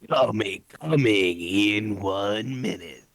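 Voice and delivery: booming fighting game announcer. Acted. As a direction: hype it up like a fight intro. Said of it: "The speaker's announcer voice is so good".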